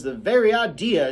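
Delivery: high, loud indignant scold; scolding Calpurnia. Acted. Calpurnia scolding Jem, indignant.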